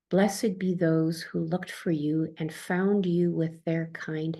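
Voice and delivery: slow, hushed reading of a blessing; slow reverent poem reading; poem recital. Acted. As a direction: let the verse fall slowly, fading to a whisper. Quoting John O'Donohue blessing.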